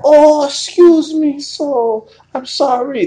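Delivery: high, drawn-out mock Yiddish accent; terrible Yiddish accent. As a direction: do a badly faked Yiddish-accented woman, slow and high. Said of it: "The terrible accent".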